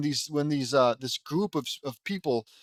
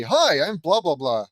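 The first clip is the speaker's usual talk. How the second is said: mocking introduction; 3 semitones higher, 7 dB louder than usual. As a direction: parody a tedious round of introductions. Mocks the coming character introductions.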